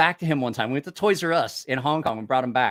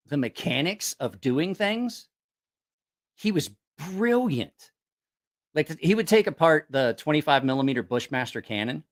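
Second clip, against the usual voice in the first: normal talking voice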